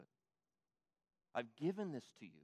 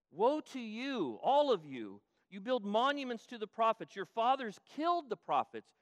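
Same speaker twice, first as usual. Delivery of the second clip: loud, higher fiery rebuke; preaching at full force, furious; angry woe; 3 semitones higher, 5 dB louder than usual. Acted. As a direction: thunder the woes at them. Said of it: "do you see why Jesus is angry".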